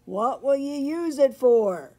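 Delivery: high, loud horse voice; neighing horse. A narrator's reading. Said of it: "he neighed".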